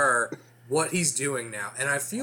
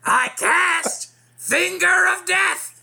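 high, slow, shouted lich screech; ancient lich voice; 6 dB louder, slower than usual. Acted. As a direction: gloat like a defeated undead king. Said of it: "all I can hear is Gilbert Gottfried now".

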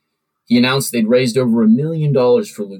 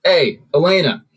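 calling out; 8 semitones higher, 3 dB louder than usual. A narrator's reading. Drunk boss calls after her.

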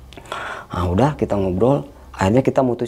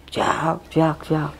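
softer, higher-pitched chirps; imitated chick cry; 4 semitones higher, 4 dB quieter, much slower than usual. Showing what circled above the tent, imitated chick cry. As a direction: peep lightly like a chick. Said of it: "kayak suara anak ayam".

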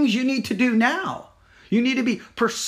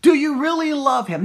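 higher and louder, pushing the question; pressing harder; 5 semitones higher, 3 dB louder than usual. Acted. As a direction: push the question home with force. Same question repeated, pressed harder.

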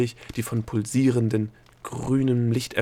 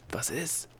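soft, higher hiss; 6 semitones higher, 8 dB quieter than usual. A narrator's reading. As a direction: hiss the question under your breath. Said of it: "zischte der Gnom".

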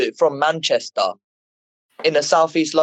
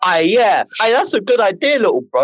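lightly acted big brother, higher-pitched; scheming older brother; 5 semitones higher than usual. Older brother agreeing to little brother's plan, mock eager. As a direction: play along with feigned enthusiasm.

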